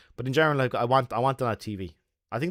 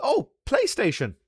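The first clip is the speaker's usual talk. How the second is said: high sheepish; 12 semitones higher than usual. Retold or imitated. Sheepish answer to security.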